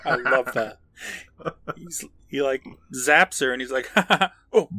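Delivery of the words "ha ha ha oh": higher-pitched fake laugh that breaks into "oh"; mock villain laugh cut short. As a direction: laugh theatrically, then catch yourself. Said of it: "stops mid-laugh".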